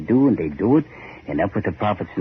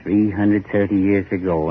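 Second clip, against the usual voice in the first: louder, pressing him to listen; insistent, raised voice; 3 semitones higher, 4 dB louder than usual. Acted. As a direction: demand his attention, voice raised.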